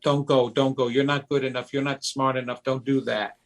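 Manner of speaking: a hint of a frightened inner child pleading; inner little kid. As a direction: hold yourself back like a scared kid. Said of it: "your little kid is saying".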